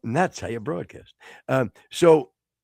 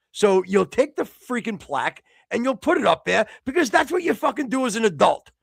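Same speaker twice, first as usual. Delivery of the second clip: raised, exasperated telling-off; mock scolding; 7 semitones higher than usual. Host tells co-host to hang the plaque, mock exasperation. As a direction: scold like a fed-up parent, voice climbing.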